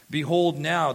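lightly voiced wife urging Abram; voicing Sarai. Sarai pressing her husband Abram, mildly voiced plea. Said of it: "this is the voice of his wife".

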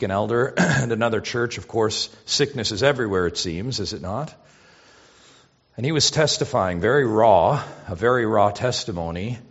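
ordinary delivery

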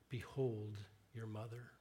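a hint of a hushed, gentle dying Jesus; soft, tender. Jesus from the cross to John, quiet and tender. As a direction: breathe it softly to the disciple.

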